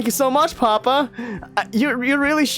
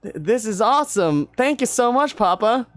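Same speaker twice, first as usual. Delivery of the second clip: higher, excited thanks; thrilled with the new lute; high eager boy; delighted son; 10 semitones higher than usual. Acted.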